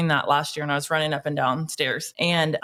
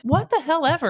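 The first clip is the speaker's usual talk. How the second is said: higher, dismissive what the hell ever; scoffing mock disbelief; 9 semitones higher than usual. Host retelling her answer to a panel critic, scoffing. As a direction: toss it off with scorn.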